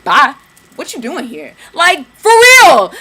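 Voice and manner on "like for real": loud, slow laughing shout; cackling. Real, not acted. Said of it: "I'm cackling because".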